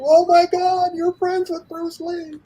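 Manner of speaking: high, excited squeal of disbelief; excited stuntmen. Retold or imitated. Stuntmen gushing to Jackie, high and excited. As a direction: gush like starstruck stuntmen.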